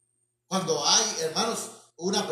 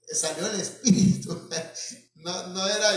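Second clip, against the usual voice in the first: amused laughing. Real, not acted. Preacher joking about the child's cure, laughing. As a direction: chuckle on the line.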